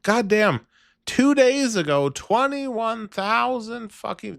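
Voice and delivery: high, loud disbelief; shocked. Real, not acted. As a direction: blurt it out in shock. Shocked at view count.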